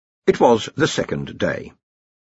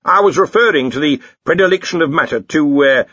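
higher, louder donnish clarification; hesitant lecturer; 6 semitones higher, 5 dB louder than usual. Acted. Lecturer clarifies his theory after the Dean objects, halting. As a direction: grope for the technical words.

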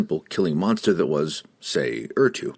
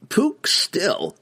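very high squeaky reply; halfling voice; 12 semitones higher than usual. Acted. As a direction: chirp it out high. Don Don replies.

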